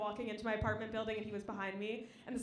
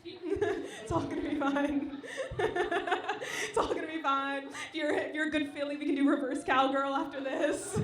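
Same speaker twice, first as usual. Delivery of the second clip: slow soothing; 2 semitones higher, slower than usual. Pretend.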